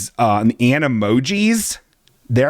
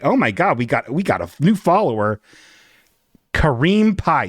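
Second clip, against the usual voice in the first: snide streamer; 3 semitones higher than usual. Shown as a demonstration. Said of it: "I did say this like a real piece of shit".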